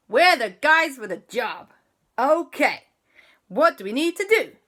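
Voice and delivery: high, loud keen voices; eager kids. Acted. Kids volunteering for JB's mission, high and loud. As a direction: jump at the job.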